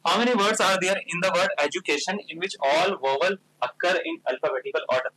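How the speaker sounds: reading the question out very slowly; slow, deliberate reading of a maths question; slow read-aloud. Shown as a demonstration. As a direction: dictate each English word slowly to the class. Teacher reads question aloud slowly.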